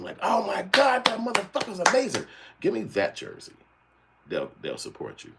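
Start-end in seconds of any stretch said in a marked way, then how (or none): 0.2-3.5 very high, loud mock-excited shriek; mock fan cheering. Streamer mocking fans gushing over a dunk, shrieking high. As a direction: gush over the athlete like a starstruck fan.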